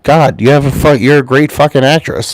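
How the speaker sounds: hammed-up angry girlfriend yelling; mock angry outburst.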